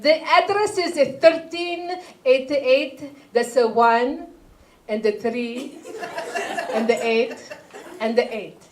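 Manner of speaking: slow, careful mom reading out an address; imitating mom. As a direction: spell it out slowly like mom on the phone. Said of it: "she'd be like".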